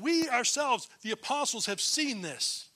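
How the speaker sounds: loud, high punch on "We ourselves", then slowing; emphatic WE. Acted. John speaking for the apostles, emphatic stress on "We ourselves". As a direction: hit "We ourselves" hard, then state the rest firmly. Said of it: "is emphatic, and you might even read it".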